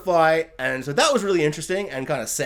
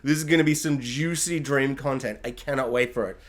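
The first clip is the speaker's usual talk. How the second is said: mock excitement. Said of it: "And I'm like".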